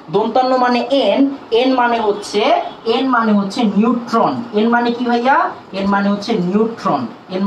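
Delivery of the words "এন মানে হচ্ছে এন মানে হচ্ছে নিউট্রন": slow emphasis. Shown as a demonstration. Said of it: "শেষে দন্তান্ন".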